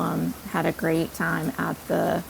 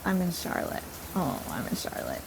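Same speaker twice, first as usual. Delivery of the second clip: retold crying; 8 dB quieter than usual. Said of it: "And then I was crying".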